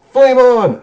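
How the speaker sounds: high, loud mock-heroic shout; superhero battle cry.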